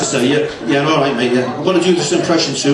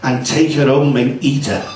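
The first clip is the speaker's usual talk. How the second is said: excited cannibal son; 4 semitones higher than usual. Retold or imitated.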